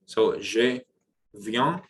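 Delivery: "je viens" with nasal vowel in "viens"; French nasal demo. Shown as a demonstration. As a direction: push "viens" out through the nose. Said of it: "let's do a practice".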